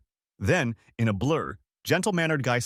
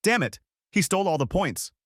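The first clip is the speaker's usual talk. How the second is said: fuming; 8 semitones higher than usual. Acted. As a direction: blow up over the stolen points. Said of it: "gentle-mannered guy was fuming".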